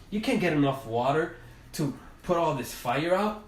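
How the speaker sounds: mocking forest animals. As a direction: tease the tiny bird, high and half-laughing. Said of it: "And they're like".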